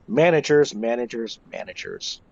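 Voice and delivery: dramatic trailing echo; fading repetition. Real, not acted. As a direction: let the word die away. Listing managers with dramatic fade.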